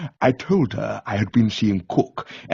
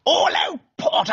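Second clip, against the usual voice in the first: thundered. A narrator's reading. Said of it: "Cook thundered".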